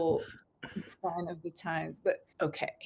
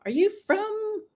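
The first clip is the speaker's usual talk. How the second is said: laughing quote; 13 semitones higher, 6 dB louder than usual. Retold or imitated. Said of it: "she's like".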